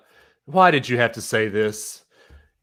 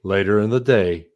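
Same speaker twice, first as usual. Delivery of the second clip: low robotic forecast read; lower, mechanical weather readout; 6 semitones lower than usual. Shown as a demonstration. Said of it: "Make a sound like the robot dude on the Weather Channel".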